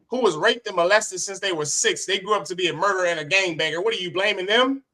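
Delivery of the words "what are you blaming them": indignant shout. Real, not acted. Indignant rhetorical question.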